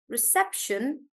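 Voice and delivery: reception with SEP stressed. Shown as a demonstration. Teacher recapping reception, stress on sep. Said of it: "stress is on sep".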